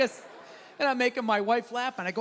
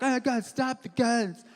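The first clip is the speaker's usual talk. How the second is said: mocking liberals. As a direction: stretch the words in a mock plea. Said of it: "then liberals are like".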